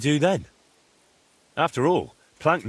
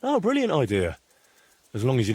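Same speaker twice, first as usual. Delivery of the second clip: sarcastic. Acted. Friend mocking a plan to join bandits, sarcastic. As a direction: scoff at the plan with fake praise.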